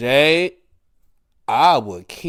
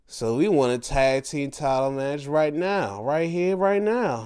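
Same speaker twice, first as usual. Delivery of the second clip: tag team challenge; 2 semitones higher than usual. Retold or imitated. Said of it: "they're like".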